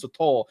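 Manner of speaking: "Sotol" with a reduced first vowel, suh-TOLE; corrected pronunciation. Shown as a demonstration. Co-host corrects himself on the tequila's name, saying "Sotol" as suh-TOLE. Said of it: "I was saying it wrong".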